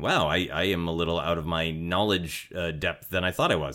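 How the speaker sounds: ordinary delivery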